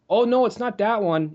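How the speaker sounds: a light mock kid voice with a lingering R; imitating Jeremy's lisp. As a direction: do the kid who rolls his R's, only lightly. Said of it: "a lingering R when he would talk".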